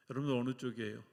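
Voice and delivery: ordinary talk, nothing marked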